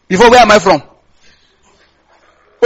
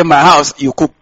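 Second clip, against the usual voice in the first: low curt order to the wife; husband ordering his wife to cook, low and curt; gruff husband; 7 semitones lower, slower than usual. Retold or imitated. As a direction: bark it down as the man of the house.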